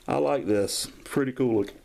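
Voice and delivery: talking with the hiccups; speech broken by hiccups. Real, not acted. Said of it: "got the hiccups".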